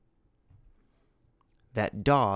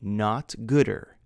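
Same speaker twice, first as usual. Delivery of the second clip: drawn out to flag the error; slow wrong form. Shown as a demonstration. Teacher to class, slowly stressing the wrong form. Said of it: "better is the comparative form of good".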